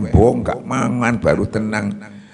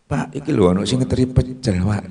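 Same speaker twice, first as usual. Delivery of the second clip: a quick, excited call to the husband, pitched higher and fast; 4 semitones higher, faster than usual. Retold or imitated. Wife calling her husband fast and eager about the pecel. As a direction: hurry to tell him food has arrived.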